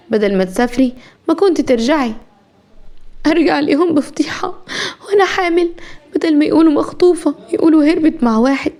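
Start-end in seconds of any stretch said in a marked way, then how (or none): 3.3-8.7 put-on higher-pitched distressed young woman; lightly voiced upset heroine.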